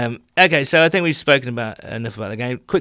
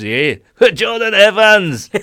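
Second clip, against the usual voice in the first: higher, louder and slow, laughing through it; laughing higher call of the player's name; laughing fan call; 9 semitones higher, 9 dB louder, slower than usual. Retold or imitated. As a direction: belt the name out mid-laugh like a delighted fan. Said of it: "laughed at me, goes".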